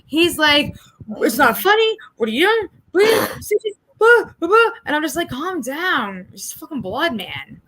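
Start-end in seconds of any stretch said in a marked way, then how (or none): 1.2-4.7 high, whiny mock distress; hammed-up frantic pleading, pitched way up; retold panicky protest. Imitating partner's panicked protest. 5.3-7.6 softer, dismissive reassurance; retold calming down. Acting out calming the partner.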